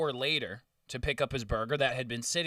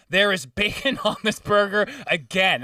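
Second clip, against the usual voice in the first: whiny complaint; 6 semitones higher, 7 dB louder than usual. Retold or imitated. Customer complains again, laughing.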